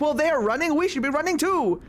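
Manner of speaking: high, rising crowd voice; mock crowd excitement. Imitated crowd deciding to join the running, mock excitement. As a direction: act out bystanders catching on.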